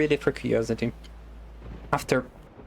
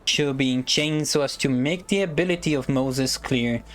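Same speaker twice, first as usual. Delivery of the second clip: speech voice. Acted. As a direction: read it like an orator addressing a prince. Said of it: "let me use a better voice. Prepare for a speech".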